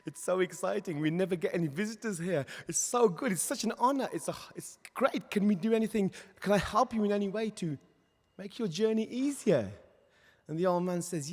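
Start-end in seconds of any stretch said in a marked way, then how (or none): 0.1-9.7 high-pitched, louder, eager welcome; thrilled, eager to help the visitor; excited greeting. Acted. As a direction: gush like a thrilled host.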